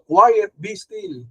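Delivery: slow, steady, calm authority; calm command. Retold or imitated. Jesus commanding the storm to be still, slow and calm. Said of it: "Sinabi niya yung, yung storm".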